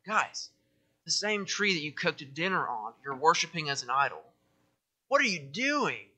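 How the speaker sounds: a light mocking prophet, voice rising on what; sarcastic Isaiah. Preacher voicing Isaiah mocking idol makers, lightly sarcastic. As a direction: roll your eyes at the idol makers. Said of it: "just that sarcastic".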